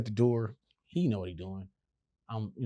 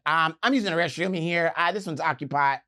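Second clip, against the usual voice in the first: lightly voiced polite white-guy voice; a hint of imitated proper speech; mock white voice; 5 semitones higher, 5 dB louder than usual. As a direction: politely put them off, slightly raised. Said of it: "his voice is white".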